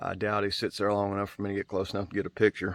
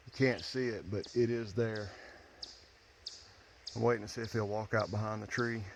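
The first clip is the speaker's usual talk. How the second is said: hushed; 5 dB quieter than usual. Real, not acted. Quietly watching a bear nearby.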